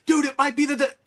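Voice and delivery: high mocking commenter cutting in to correct; know-it-all commenter. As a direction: lightly ham up the eager nitpicker. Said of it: "He's like".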